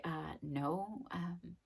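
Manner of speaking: soft, curt no with a huffy okay; softly curt refusal to a coworker; snippy brush-off. Retold or imitated. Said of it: "And you're like".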